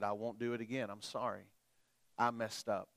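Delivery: soft, low retold apology; apologetic dad. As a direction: voice a contrite father, quietly. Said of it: "I wanna apologize to you".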